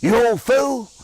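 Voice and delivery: wife fondly scolding her prankster husband; affectionate scolding. Retold or imitated. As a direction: scold him lovingly, half laughing. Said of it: "always affectionately said".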